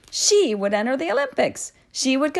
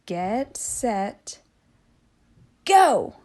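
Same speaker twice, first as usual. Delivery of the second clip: starter's call; much slower than usual. A narrator's reading. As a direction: build the tension, then bark go. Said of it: "said Kookaburra".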